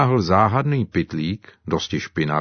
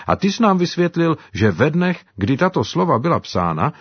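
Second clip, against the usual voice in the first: lightly voiced African servant, earnest; a touch higher, eager retelling; Simba's voice; 6 semitones higher than usual. (lehce odlišený hlas Simby, zaujatý)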